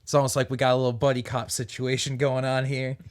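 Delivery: lightly southern city vagrant; southern accent. Acted. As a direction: keep a faint southern lilt. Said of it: "still talking in this accent".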